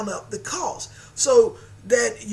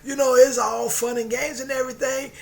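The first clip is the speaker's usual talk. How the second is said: excited retelling; 3 semitones higher, 4 dB louder than usual. Retold or imitated. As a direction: tell it thrilled and breathless. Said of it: "She says".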